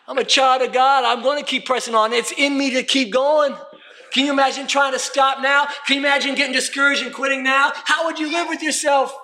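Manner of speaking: insistent pulpit declaration; impassioned preaching. Acted. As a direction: drive each line home to the congregation. Preaches with rising force.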